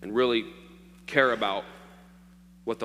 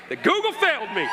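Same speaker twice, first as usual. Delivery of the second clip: mock despair; 5 dB louder than usual. Real, not acted. Laughing at own mispronunciation.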